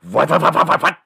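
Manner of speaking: high, loud repeated what; angry dad. Retold or imitated. Father pulling off his belt, loud and furious.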